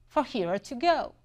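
lightly imitated Southern accent; heavy Southern accent. Coffee shop lady asking a customer, lightly imitated Southern accent. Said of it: "she says that in a very heavy Southern accent".

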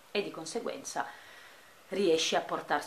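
breathless, short on air; catching breath between words. Real, not acted. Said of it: "scusate il fiatone ma l'aso tappato".

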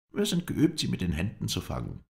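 starts very high, then settles; high-pitched Kurd; Kurdish spokesman. A narrator's reading. Kurdish spokesman answers, voiced high.

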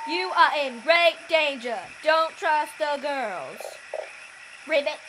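a hint of a toad voice; frog voice. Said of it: "I need to think of a frog voice".

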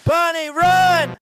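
drawn-out shout to run; loud stretched cry of alarm; urgent call. Real, not acted. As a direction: yell a slow warning across the room. Urgent warning to the bunny.

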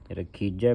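ਰਖੀਜੈ ending in an open "jai"; double-vowel ending. Shown as a demonstration. Teacher points to the vowel sign on jajja, ਰਖੀਜੈ ending open. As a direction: sound the last vowel of ਰਖੀਜੈ as "ai". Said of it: "ਜੱਜੇ ਨੂੰ ਦੁਲਾਵਾਂ ਲੱਗੀਆਂ".

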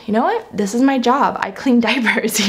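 bright, upbeat take on a chore; joyful, caring. Pretend. Mother to camera showing a happier attitude, light and cheerful. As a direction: cheerfully own the diaper duty. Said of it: "having a joyful, caring attitude".

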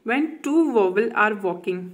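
slow, careful reading of a rhyme. Acted. Teacher reading the vowel rhyme to a student slowly. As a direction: read it slowly so the child follows.

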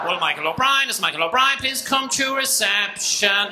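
lightly mocked receptionist tannoy call. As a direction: announce it like a bored receptionist. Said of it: "dictating accent".

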